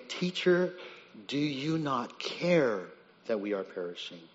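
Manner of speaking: slow, quiet, wounded reproach; hurt accusation. Acted. Disciples questioning sleeping teacher, slow hurt reproach. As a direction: let the doubt that he cares show. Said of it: "notice the attitude".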